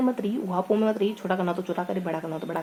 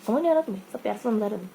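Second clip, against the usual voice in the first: mock dad telling off his child; stern scolding; 2 semitones higher, faster than usual. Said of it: "पापा ने जोर से फटकार लगाई". (पापा की डाँटती हुई आवाज़)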